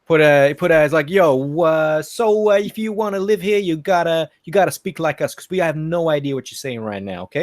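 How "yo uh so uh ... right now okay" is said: imitated Boston local; Boston accent. Local telling the Aussie to speak like us, put-on Boston accent. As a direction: lay down the rules in mock Bostonian. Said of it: "It's Boston that did".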